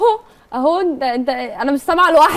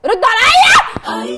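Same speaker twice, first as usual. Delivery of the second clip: loud, high, drawn-out scream; slow, full-force angry yell; furious shout; 7 semitones higher, 7 dB louder, much slower than usual. Real, not acted. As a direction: scream the demand for an answer. Same demand repeated, now screamed.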